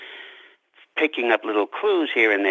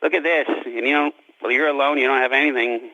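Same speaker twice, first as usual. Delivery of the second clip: mock gloating taunt, a touch higher; taunting Jessime; 4 semitones higher, faster than usual. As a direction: rub it in as Jessime. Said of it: "rub it in ... and say".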